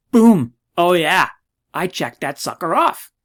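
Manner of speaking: loud, hammed-up victory cheer; mock triumph. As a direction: crow over a tiny win like a huge victory. Celebrates ticking a checkbox.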